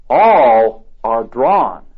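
"all are drawn" stretched very slow; slow emphatic stress. Acted. Preacher granting the point, very slow emphasis.

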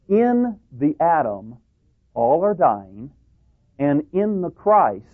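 slow, with weight on "in"; measured reading, "in" held long; stress on IN. Shown as a demonstration. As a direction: lean on each "in", drawing it out. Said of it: "belongs on the word "in".

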